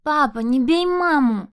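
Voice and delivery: put-on high, loud, slow child's plea; a terrified little girl screaming. Child begs father stop. (испуганный детский крик)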